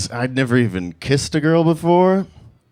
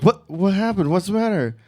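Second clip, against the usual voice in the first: higher-pitched, concerned questions; worried date; 4 semitones higher, 3 dB quieter than usual. Retold or imitated. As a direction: imitate an alarmed date. Voices startled date asking.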